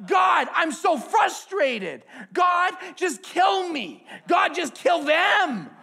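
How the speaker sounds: shouted high and loud, slow and raw; anguished shout to God. Retold or imitated. David shouting his frustration at God. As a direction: cry out in fury and despair. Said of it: "He was like".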